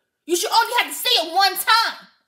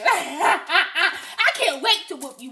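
laughing threat; 3 semitones lower, much slower than usual. Real, not acted. Laughing, slow.

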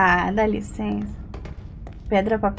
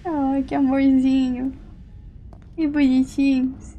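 gushing thanks; 7 semitones higher than usual. Real, not acted. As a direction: coo over a sweet gift. Thanking viewer's gift, gushing. (agradecendo um presente com voz derretida)

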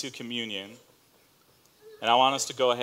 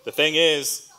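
a real laugh breaking out, louder and higher; laughing through tears; 5 semitones higher, 7 dB louder, slower than usual. Real, not acted. Pastor recovering from emotion, laughing through tears. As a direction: release the tension in a laugh.

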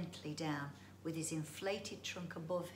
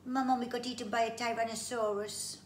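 sad creature voice; 5 semitones higher, 7 dB louder than usual. Acted. Sad bungee lists lost family.

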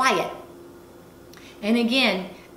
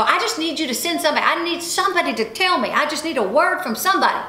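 higher, urgent begging tone; retold furious plea; 5 semitones higher, faster than usual. Speaker on treadmill asking God for a word, exasperated. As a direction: plead insistently, retelling an exasperated prayer. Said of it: "I'm furious".

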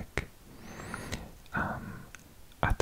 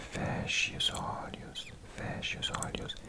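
fading whisper; 6 dB quieter than usual. Shown as a demonstration. Echoed relaxation phrase, fading repeat.

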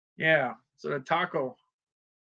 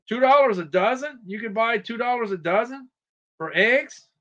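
higher-pitched, incredulous asking; can't quite believe the price; amazed question; 4 semitones higher than usual. Real, not acted. Streamer questioning a viewer's egg price, amazed.

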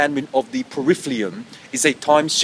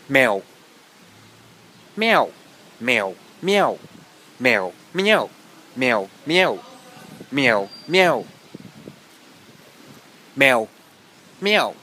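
cat meows; slower than usual. Pretend. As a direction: play a cat mewing back and forth. Repeated cat meows in monologue.

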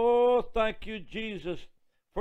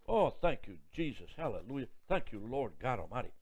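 soft, lower prayerful thanks; quiet praise; 5 semitones lower, 6 dB quieter than usual. Real, not acted. Preacher giving quiet personal thanks to Jesus. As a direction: murmur thanks to God. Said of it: "quiet fervent praise".

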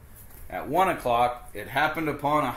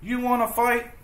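much higher, loud challenge; grouchy ladybug; 12 semitones higher, 6 dB louder than usual. Acted. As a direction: shout up a fight. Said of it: "the grouchy ladybug said".

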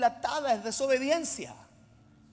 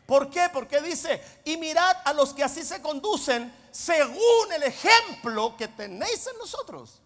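emphatic pulpit delivery with punched key words; forceful preaching; 2 semitones higher, 6 dB louder than usual. Real, not acted. Preacher summing up his points for the church, preaching forcefully. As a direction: drive each point home to the congregation.

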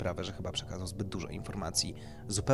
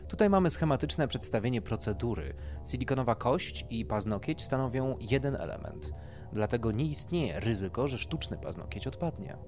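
lightly voiced doctor, raised and emphatic; doctor explaining procedure; 5 semitones higher, 4 dB louder than usual. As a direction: explain it like a consultant to a client.

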